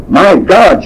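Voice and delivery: high, alarmed exclamation; shocked. Retold or imitated. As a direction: gasp it out in alarm. Waitress alarmed.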